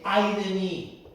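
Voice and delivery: slow, loud "Ay de mí"; drawn-out lament. Retold or imitated. Preacher voicing Isaiah's lament, slow and loud. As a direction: stretch the lament out. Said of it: "Isaías dice".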